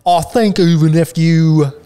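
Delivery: lightly put-on southern accent, mouth open; wide-mouthed southern accent. Shown as a demonstration. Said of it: "talked in a southern accent".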